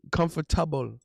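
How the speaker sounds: "Comfortable" with a crisp t, kum-fer-TAH-bul; Caribbean pronunciation of "Comfortable". Shown as a demonstration. Streamer showing chat how Caribbeans say it. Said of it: "That's how we say it".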